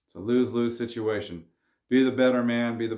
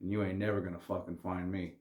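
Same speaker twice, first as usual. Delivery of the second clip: softer, dead calm warning; calm quiet threat; 3 semitones lower, 8 dB quieter than usual. Retold or imitated. Gangster coolly threatening the buddy's dad, calm and soft. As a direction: say the threat softly and evenly. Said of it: "addressed him very calmly".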